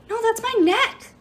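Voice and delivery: high, strangled protest; gagging protest. A narrator's reading. Jairus grabbed by the neck, gagging protest. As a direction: choke out a high-pitched objection. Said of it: "Jairus gagged".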